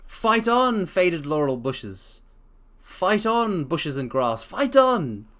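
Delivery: loud, high rally cry; mock rousing cheer. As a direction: urge the bushes on like a coach. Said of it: "cheering the bushes".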